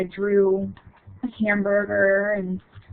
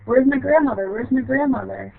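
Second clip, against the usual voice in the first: put-on child searching; 4 semitones higher than usual. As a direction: anxiously call out for grandma. Child searching for dead grandma.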